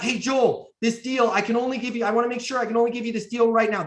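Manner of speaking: high-pitched mock hard sell; parodied urgent salesman; pushy wrong example. Shown as a demonstration. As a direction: rattle off a pressuring pitch as what not to do.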